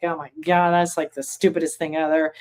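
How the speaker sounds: a light touch of mock contempt; lightly imitating a sneering critic; disdainful. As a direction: scoff at it, mildly scornful. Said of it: "Disdain is not a nice energy".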